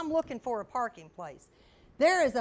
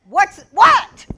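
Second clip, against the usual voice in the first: loud, high startled question; confused startle; 8 semitones higher, 18 dB louder than usual. Retold or imitated. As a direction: blurt it out in confusion. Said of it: "Sam said".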